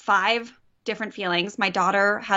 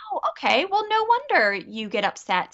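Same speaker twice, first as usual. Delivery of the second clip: higher-pitched, validating realization; understanding parent; 6 semitones higher than usual. Acted. Mom validating her upset son, understanding parent. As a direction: act out sudden sympathy for a child. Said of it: "You're gonna go".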